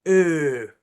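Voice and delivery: "eh", "oo", "Uh." grunted loud as garbled British vowels; mock British syllables. Imitating the phone clerk's syllables, mock British grunts. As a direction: sound out mushy British vowels. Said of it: "It's like an".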